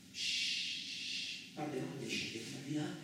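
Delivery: to the stranger among sleepers, hushed. Acted. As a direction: keep it down, people sleep. Hushing in a room of sleepers.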